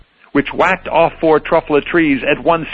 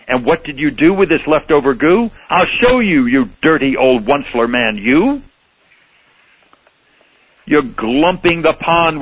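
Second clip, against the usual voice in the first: a touch of cross Lorax; Lorax with his dander up. Acted. Lorax riled up over gluppity glup, mildly cross. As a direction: scold him, mildly riled. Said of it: "his dander was up".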